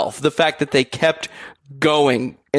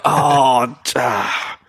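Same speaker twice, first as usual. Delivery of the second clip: mock pained reassurance; much slower than usual.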